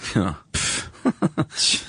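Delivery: voiceless puff of derision; derisive scoff. Shown as a demonstration. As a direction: scoff with a breathy "pfft", then chuckle. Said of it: "derision in my voice".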